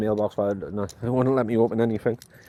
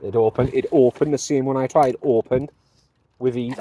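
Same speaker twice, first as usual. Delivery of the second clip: excited; 6 dB louder than usual. Real, not acted. Key finally turns in lock.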